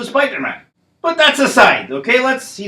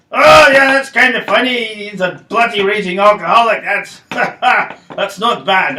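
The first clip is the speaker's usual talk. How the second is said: Hulk laughing; 2 semitones higher, 4 dB louder than usual. Acted.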